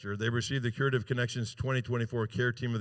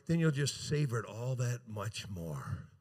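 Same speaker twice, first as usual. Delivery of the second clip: mock emotional; 4 semitones lower than usual. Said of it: "I'm getting kind of emotional".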